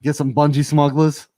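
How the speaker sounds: mock Australian slang accent; lightly imitated Aussie commentator; Aussie Man. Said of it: "Aussie Man with the Australian slang".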